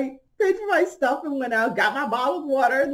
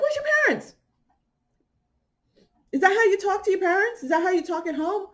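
attitude; 10 semitones higher, faster than usual. Retold or imitated. Scolding the young woman.

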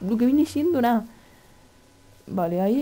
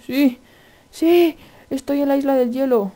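higher, exultant cry of success; excited cheer; 5 semitones higher, 4 dB louder than usual. Real, not acted. Gamer reaching the ice island, excited cheer. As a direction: celebrate it, louder on the second yes. Celebrates landing the pearl throw.

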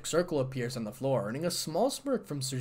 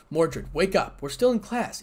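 calling out; 3 semitones higher, 7 dB louder than usual. Acted. Issei calling sleeping Mordred.

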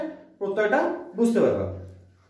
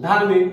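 ধার্মিক said louder and falling, the ending ইক clear; louder demo word; 3 semitones lower, 6 dB louder than usual. Shown as a demonstration. Teacher calling out ধার্মিক to show students its ইক ending. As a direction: call out ধার্মিক so the ইক ending is heard. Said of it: "শেষে ইক উচ্চারণ করছি".

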